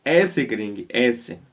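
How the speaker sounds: ऐसे said clearly for the class; sounds the rule out. Shown as a demonstration. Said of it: "तो इसका उच्चारण".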